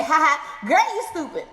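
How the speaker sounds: high, spoken "ha ha" tease; playful, half-acted amusement; mock laughing tease. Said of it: "able to laugh and say".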